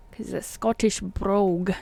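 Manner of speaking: brief attempt at a Scottish brogue; lightly put-on Scottish accent. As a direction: slip playfully into a Scottish burr. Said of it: "I wouldn't do my Scottish accent".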